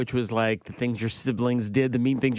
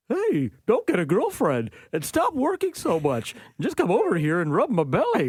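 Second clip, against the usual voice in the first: jealous dog voice; 7 semitones higher than usual. Pretend. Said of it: "it would sound something like this".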